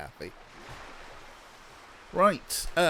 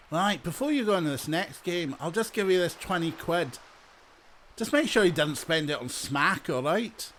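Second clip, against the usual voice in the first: lightly voiced Scottish character; a hint of a Scottish game-show host; Jamie; 2 semitones higher than usual. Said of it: "they've got Jamie".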